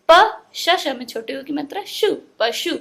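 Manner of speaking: "प" alone, spell out "शु", then join as "पशु"; teacher sounding out "पशु" piece by piece. Shown as a demonstration. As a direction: build "पशु" from letters and vowel sign. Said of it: "इस तरह से हम लोगों को".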